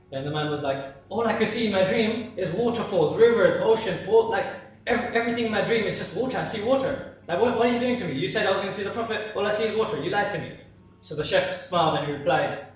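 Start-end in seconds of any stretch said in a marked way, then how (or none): 1.1-10.5 pitched up, aggrieved protest; exasperated complaint. Acted. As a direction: protest as if you were tricked, mildly worked up. Man complains he only dreamt of water.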